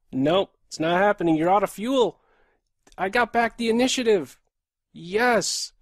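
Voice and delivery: loud, fast triumphant calls; excited. Real, not acted. Streamer regaining the game, excited and fast. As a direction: push with rising confidence.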